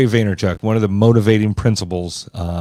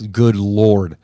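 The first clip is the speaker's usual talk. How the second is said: hammed-up, louder exclamation; mock teen slang; 4 dB louder than usual. Dad teasing his daughter, hammed-up fake slang. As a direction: finish the cringe bit with a flourish. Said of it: "I'll butcher her slang words on purpose".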